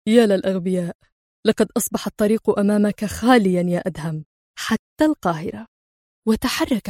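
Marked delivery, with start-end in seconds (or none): 0.1-5.7 understated amused scorn, unhurried; a light sneer, said calmly; calm mockery. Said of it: "ابتسم في سخرية وهو يقول في هدوء".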